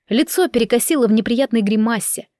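usual speaking voice

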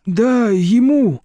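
slow, sorrowful admission; sorrowful sigh. A narrator's reading. Deputy director admits the sale to Nadezhda, sorrowful. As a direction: breathe it out in sorrow. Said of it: "горестно выдохнул".

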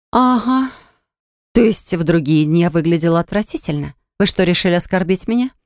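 teasing, mock-hurt witch; mocking offended. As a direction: taunt him with fake offense. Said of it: "Откровенно издевалась ... обиженная ведьма".

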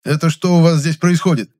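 stern demand. A narrator's reading. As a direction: break up the fight. Narrator slams table, demands. (строгий окрик)

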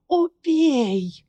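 hoarse shout. Acted. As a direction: rasp it out loud, desperate. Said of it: "прохрипела Ларри".

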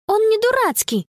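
high indignant exclamation; exclaiming. A narrator's reading. Girl defending her phone from friend, indignant cry. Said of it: "воскликнула Конни".

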